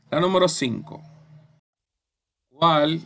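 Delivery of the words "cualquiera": "Cualquiera" spaced out, higher and louder on "quie"; syllable-by-syllable demo. Shown as a demonstration. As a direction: break "Cualquiera" into syllables, leaning hard on "quie". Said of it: "Esa es la sílaba tónica".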